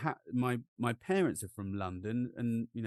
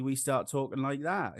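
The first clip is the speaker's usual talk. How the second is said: lilting English country accent from Norwich; 2 semitones higher than usual. Shown as a demonstration. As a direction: slide into a rural English accent. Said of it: "English country accent".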